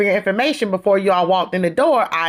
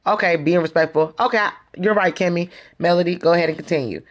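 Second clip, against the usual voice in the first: imitated polite concession, even and unforced; respectful concession. Retelling what Destiny meant to say to Melody, respectful. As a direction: give way to her respectfully. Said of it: "she ain't mean it like that".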